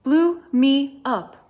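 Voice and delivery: slow, breathless, gasped out; panting. Acted. Queen out of breath after her flight, panting. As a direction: push the words out short of breath. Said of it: "panted the queen".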